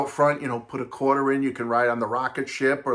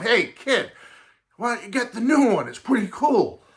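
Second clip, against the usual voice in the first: put-on much higher, casual teen voice; laid-back teen recommending a record; seventies lingo; 8 semitones higher than usual. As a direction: say it like a cool seventies kid. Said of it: "along that seventies lingo of".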